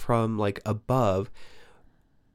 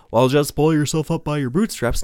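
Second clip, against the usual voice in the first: mocking tone; 4 semitones higher, 4 dB louder than usual. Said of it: "society has, like".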